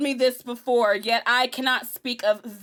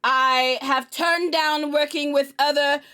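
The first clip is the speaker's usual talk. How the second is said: slow, loud theatrical outrage; hammed-up grievance speech; mock indignant protest; 3 semitones higher, 5 dB louder than usual. Cohost protesting to Omar about being silenced, hammed-up indignation.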